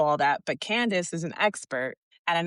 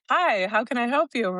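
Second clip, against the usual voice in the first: higher-pitched, lightly voiced salesman greeting; eager salesman; 5 semitones higher, 3 dB louder than usual. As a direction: imitate a salesman greeting customers. Salesman's greeting acted in a retelling.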